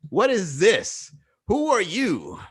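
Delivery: suspicious street guy sizing you up; sizing-up stranger. Retold or imitated. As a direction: play a guy squinting at a weirdo. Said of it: "they size you up and they're like".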